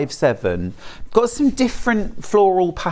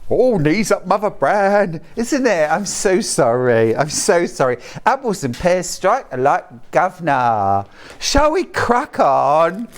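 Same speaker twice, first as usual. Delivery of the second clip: hammed-up mock Cockney patter; bad Cockney accent; 2 semitones higher than usual. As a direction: play a daft Cockney, badly. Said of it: "Cockney accent".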